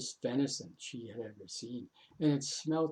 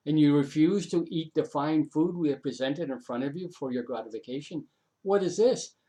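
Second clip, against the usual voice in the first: indignant crowd; 2 semitones higher, 5 dB louder than usual. Acted. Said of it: "all the people looked at her and said".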